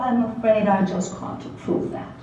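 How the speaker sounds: pseudo-British professor quietly refusing; quiet refusal. Acted. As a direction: turn him down with quiet faked British politeness. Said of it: "in his crisp, pseudo-British accent".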